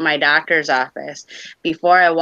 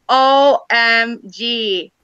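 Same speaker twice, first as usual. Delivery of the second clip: amazed; 7 semitones higher, 3 dB louder, much slower than usual. Retold or imitated. Amazed at mind reading.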